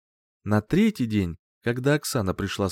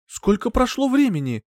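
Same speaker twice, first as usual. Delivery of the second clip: anxious, higher and louder; worried question; 12 semitones higher, 3 dB louder than usual. A narrator's reading. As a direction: ask in rising alarm. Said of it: "взволнованно спросила женщина".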